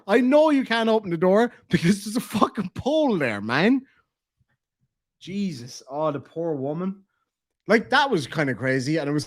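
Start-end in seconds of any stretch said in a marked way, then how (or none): 0.1-3.8 retold exasperated reply, slightly raised; mock fed-up telling-off. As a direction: act out losing patience with her.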